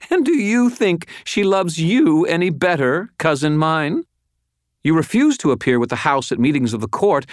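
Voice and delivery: high, forceful woman's voice, full of scorn; haughty angry cousin. Acted. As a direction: sneer at your cousin in high outrage.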